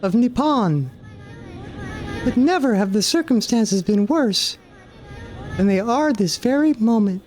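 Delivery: solemn pleading goddess, lightly voiced; a hint of a grave divine mother. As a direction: ask for help in a lofty goddess voice. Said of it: "I can't believe I'm doing these voices".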